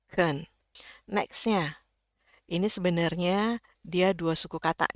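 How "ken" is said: "Ken" with a schwa; schwa pronunciation. Shown as a demonstration. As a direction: say "Ken" with the e of senang. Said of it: "Jadi pakai e". ("Ken" dengan e pepet)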